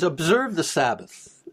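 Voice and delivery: slow, weighted Observe; stress on Observe. Shown as a demonstration. Preacher contrasting Observe with remember. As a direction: draw out Observe firmly. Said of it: "it doesn't start off by remember it".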